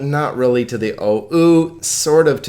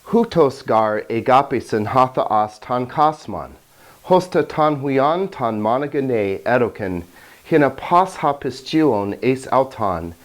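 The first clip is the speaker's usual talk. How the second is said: Greek scripture reading. Shown as a demonstration. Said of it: "listen for now to the beauty of the language".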